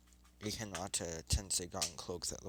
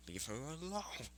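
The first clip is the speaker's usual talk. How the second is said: stern hero; 7 semitones higher, 7 dB quieter than usual. Acted. Stopping bullies, chakra mode.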